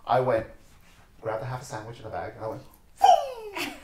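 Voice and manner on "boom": shouted boom with a laugh; loud boom. Retold or imitated. Retelling throwing a sandwich at the girl, laughing shout. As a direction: belt it out, laughing.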